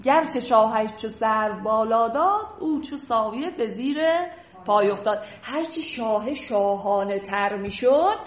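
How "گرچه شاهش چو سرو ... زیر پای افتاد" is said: measured poetry reading, phrase by phrase; lightly recited Persian verse; verse recitation. Acted. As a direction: read the couplet aloud for a class. Reads verse aloud.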